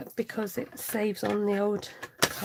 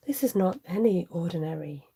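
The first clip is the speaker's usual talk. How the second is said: M&S advert voice; 4 semitones lower than usual. Retold or imitated. Telling viewers her dinner, in the Marks and Spencer's ad voice. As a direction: savour the words like a posh supermarket ad. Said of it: "in the Marks and Spencer's voice".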